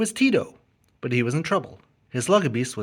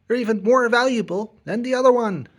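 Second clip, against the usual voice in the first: greedy gloat; 9 semitones higher, 4 dB louder than usual. Acted. Tito gloats.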